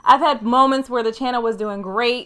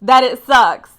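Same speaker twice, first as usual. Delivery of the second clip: determined; 4 semitones higher, 4 dB louder than usual. Retold or imitated. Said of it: "you get up the next day and you say".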